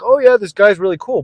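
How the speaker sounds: high, breezy imitation of the women; airy women's voice. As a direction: play the women's bored praise. Women's voice, retold.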